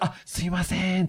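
high polite apology. Retold or imitated. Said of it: "you get higher pitched".

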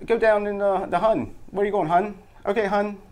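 put-on Baltimore local, lilting up high; Baltimore accent. Shown as a demonstration. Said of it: "A lot of that in Baltimore".

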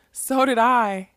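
bursts out high and loud; sudden loud cry of recognition; excited cry. A narrator's reading. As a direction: blurt it out, thrilled. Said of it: "Molly cried".

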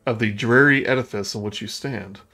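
measured game master narration; scene-setting narration. Acted. Game master describing a cobwebbed room to players, scene-setting narration. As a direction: read out the room description evenly.

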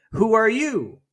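high call sent back like an echo; echoed yell. Acted. Mountain answering the son, high echoing yell. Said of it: "He receives the answer".

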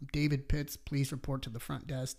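flat echoey PA announcement; intercom page. Retold or imitated. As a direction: page it like over a loudspeaker. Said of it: "I get a page over the intercom".

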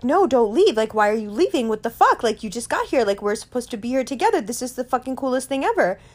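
high, frantic pleading; freaking out. Retold or imitated. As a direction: beg him not to go, panicking. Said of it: "And I started to freak out".

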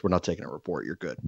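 dry, dismissive officer; officer's brush-off. Retold or imitated. Officer telling the jug runner no report, low and soft.

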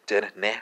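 Den Ne breathed in a whisper with no voice; a whispered pronunciation of Den Ne; whispered Welsh word. Shown as a demonstration. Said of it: "Spelled D Y N space N I".

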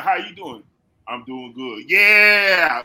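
lightly voiced country buddy; a hint of the one-note country friend; country guy voice. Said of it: "Just that one fella".

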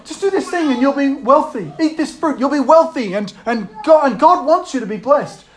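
a hint of a coaxing salesman; lightly acted tempter. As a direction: sell the false promise. Voices tempter promising wealth.

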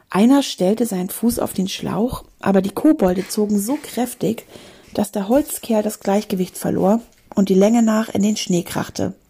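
animated storybook reading; story narration. A narrator's reading. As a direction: read an adventure to a class, clearly articulated. Reads a story aloud.

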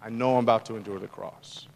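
low, hushed, sober realization; quiet, weighty inner voice of dread; humanity breaking. Acted. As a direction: drop low and soft, as if facing what is coming. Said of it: "this breaking of his humanity".

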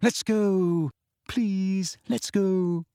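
high, fearful pleading; small, urgent, terrified plea; high-pitched, terrified. A narrator's reading. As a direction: beg to leave, frightened. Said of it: "in a high-pitched and terrified voice".

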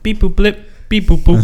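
high, loud droid chirps; R2-D2 beeps. Retold or imitated. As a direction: beep like a little robot. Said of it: "it was something like".

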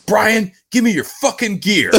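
mock demand. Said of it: "and I'm gonna be like".

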